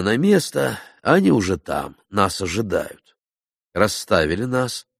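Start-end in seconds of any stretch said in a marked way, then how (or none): none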